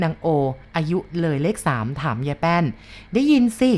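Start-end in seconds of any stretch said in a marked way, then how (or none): 2.9-3.7 put-on higher, drawn-out old woman's reply; old head cook answering the young maid, slow.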